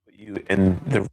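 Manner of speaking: breaking-up, crackly mic audio; crackling mic. Real, not acted. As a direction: voice cutting in and out. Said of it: "The, the mic is cracking".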